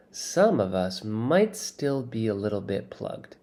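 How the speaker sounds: slow, guilty admission; sheepish confession. Acted. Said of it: "he confesses".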